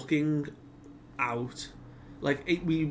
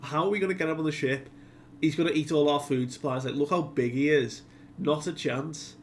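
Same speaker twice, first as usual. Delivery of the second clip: quick, slightly raised protest; mock freaking out; 3 semitones higher than usual. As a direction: rattle off a mild mock panic. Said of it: "Sanji are freaking out".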